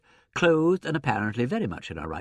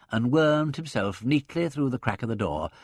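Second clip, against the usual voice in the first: usual speaking voice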